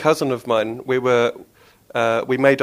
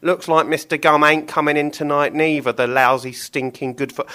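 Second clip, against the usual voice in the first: a touch higher, grumbling butcher; grumbling Billy; 4 semitones higher, 4 dB louder than usual. Acted. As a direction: moan about your no-show pal. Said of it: "Billy sighed".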